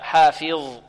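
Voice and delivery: حافظ with a pure "fi", unaffected by ظ; careful teacher's model of حافظ; preserved fā' kasra. Shown as a demonstration. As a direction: say حافظ with a distinct short "i" after ف. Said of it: "نحافظ على كسرة الفاء".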